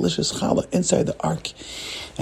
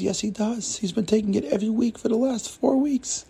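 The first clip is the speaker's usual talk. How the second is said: soft, higher-pitched protest; meek insistence; 7 semitones higher, 6 dB quieter than usual. Acted. Joseph answering the mocking cleaner, meek insistence. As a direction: insist softly, in a small earnest voice.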